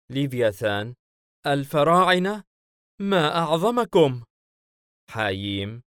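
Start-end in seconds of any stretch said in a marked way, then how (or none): 1.5-4.2 put-on high, loud, amazed little-boy voice; awed child. Child Leviathan hears of the Pharaohs, high awed voice. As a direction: marvel like a wide-eyed child.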